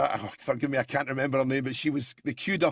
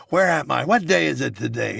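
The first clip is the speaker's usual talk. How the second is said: a hint of a muddled old man, louder; confused Biden; 2 semitones lower, 3 dB louder than usual. Impressionist mocking Biden's confusion, mild. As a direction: act lost and bewildered. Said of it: "you can't".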